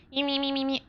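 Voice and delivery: light chirpy cat babble; Memers voice. Retold or imitated. Voice she gave her pet cat, light cat babble. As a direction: imitate a little cat voice. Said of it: "Memers voice".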